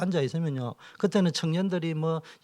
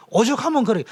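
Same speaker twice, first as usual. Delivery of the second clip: emphatic exclamation; 9 semitones higher, 7 dB louder than usual. Acted. Pleading understanding, loud.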